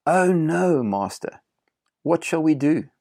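high, loud cry of alarm; young servant panicking, acted out; alarmed yell. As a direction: call out in dismay to your master. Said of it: "the young man yells out".

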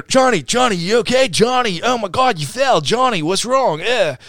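high-pitched frantic crowd imitation; squeaky mock alarm, rising and falling; mock panicked fussing. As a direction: fuss over a fallen friend, hammed-up. Acting out panicked crew after crash.

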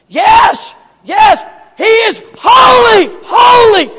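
high, loud answering shout; crying back. Acted. Other line of angels crying back, high shout. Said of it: "the other side cries back".

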